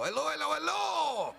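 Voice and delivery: hammed-up hype announcer. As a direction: boom it out like a stadium MC. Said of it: "And he'd go".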